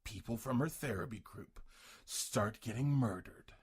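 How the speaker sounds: lightly voiced trailer announcer. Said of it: "trailer announcer voice".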